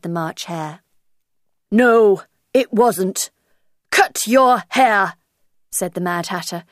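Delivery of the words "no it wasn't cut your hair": rude retort. Acted. Hatter rude to Alice.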